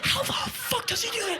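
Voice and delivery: very high incredulous squeal; mock crowd amazement. Everyone watches Iggy get up, high incredulous voice. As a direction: imitate astonished onlookers in a squeaky high voice.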